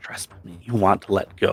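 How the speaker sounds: half whispering, hushed voice. Voicing a character telling a player to let go: half whispering. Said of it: "half whispering to you".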